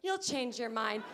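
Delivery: drawn-out slow smug repeat; slow mock. Mocking the advice she keeps hearing, slow and smug. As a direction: say it slowly like an obvious truth. Same line slowed for emphasis.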